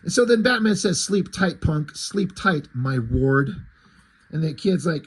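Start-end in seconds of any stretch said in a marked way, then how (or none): 1.0-3.5 fake Clint Eastwood voice. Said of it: "lame-ass Clint Eastwood impersonation".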